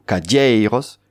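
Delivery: slow "cadeiros", leaning on the "dei"; stress on second-last syllable. Shown as a demonstration. Teacher giving an example of the Occitan rule, stress on second-last syllable of "cadeiros". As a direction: lengthen "dei" in "cadeiros", let "ros" fall away. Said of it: "l'accent se fait sur l'avant-dernière syllabe".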